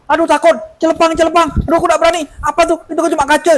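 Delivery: put-on high, frightened girl's voice; scared girl voice. Healer voices a frightened girl in trance. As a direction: whimper like a scared child. Possessed girl afraid of glass.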